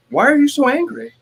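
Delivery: very high, loud mock accusation; accusing wife. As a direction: imitate a wife jumping to conclusions. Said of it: "Jessica will assume that I'm angry".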